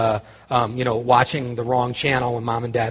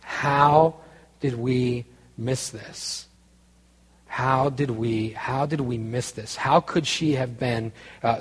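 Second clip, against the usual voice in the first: stunned parents fading almost to silence; shell-shocked parents. Retold or imitated. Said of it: "they were sort of shell-shocked".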